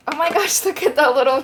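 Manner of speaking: sudden surprised delight. Real, not acted. Spots surprise charm in slime.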